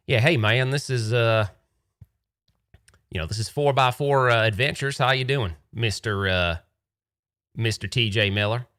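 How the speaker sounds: a hint of a laid-back desert local; Arizonan tour guy. Tour guide greets the caller on the phone, lightly voiced and friendly. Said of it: "he was like".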